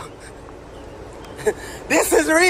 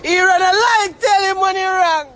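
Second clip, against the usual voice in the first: higher-pitched indignant outburst; worked-up rant; 4 semitones higher than usual. Real, not acted. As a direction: protest it, pitched up and insistent. Ranting about friend's public disgrace.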